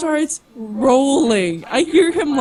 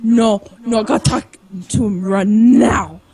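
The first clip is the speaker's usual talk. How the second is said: retold drunk insistence; 3 semitones lower, 4 dB louder than usual.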